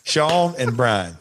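"Sean and Brian" said slowly, drawn out; slow Southern names. Shown as a demonstration. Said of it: "I did".

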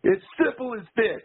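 hammed-up Roddy Piper swagger; Roddy Piper impression. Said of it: "and Piper goes".

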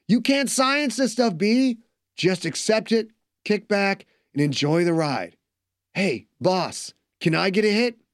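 high, laid-back buddy voice; easygoing young dude. Acted. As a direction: chill stoner bro. Joe's character voice.

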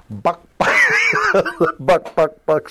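high, loud mock chicken clucks; laughing imitation of a chicken; chicken clucking. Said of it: "Sid starts doing a buck, buck stuff".

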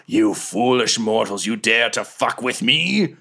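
arrogant, rising to a roaring shout; mock divine fury, building to a scream; booming whale god. DM voices the whale's psychic taunt.

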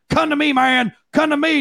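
imitating cop call. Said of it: "The other one's going".

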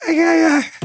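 helpless high-pitched laughter, words breaking; laughing too hard to get the words out; cracking up. Real, not acted. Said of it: "I just can't".

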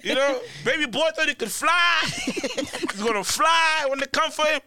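high, laughing tease; words lifted high by real laughter. Real, not acted. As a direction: crack up while joking at his expense. Joking and laughing about the ranter.

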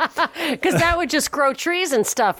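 slow, sarcastic laughing aside. Real, not acted. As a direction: chuckle the sarcasm out slowly. Sarcastic joke about carbon.

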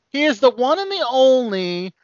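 boxing-ring announcer, stretch the name. Acted. Host hypes panelist introduction.

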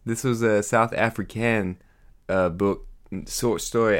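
shaky attempt at South African; half-hearted South African accent; bad South African accent. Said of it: "I don't know what South African sounds like".

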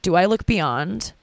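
slow, lightly voiced tearful question; a hint of a crying socialite, drawn out; Paris Hilton. Comic retelling a crying scene, slow mock question. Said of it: "she was like".

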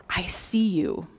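gently sincere, breath in the voice; hushed, heartfelt greeting. Acted. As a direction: greet a passer-by with quiet weight. Imagined greeting to a passer-by.

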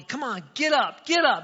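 loud, high shout of get up; man hollering at his donkey to stand; yelling at donkey. Retold or imitated. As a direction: yell at a stubborn donkey. Farmer yelling at stubborn donkey.

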